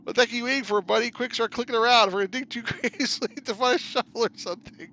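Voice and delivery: high, loud, laughing panic; frantic urging. Acted. Urging a buddy to dig graves, frantic high and loud. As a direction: hurry your partner along, manic.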